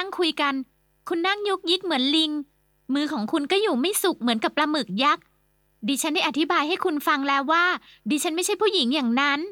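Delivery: put-on a proper girl scolding a pest; young woman refusing. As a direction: turn him down with cool disdain. Young woman rebuffs rude suitor.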